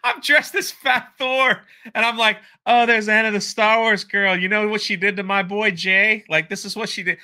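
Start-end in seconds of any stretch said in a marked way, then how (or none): 2.6-7.2 third-person hype. Acted. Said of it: "talking about myself in the third person".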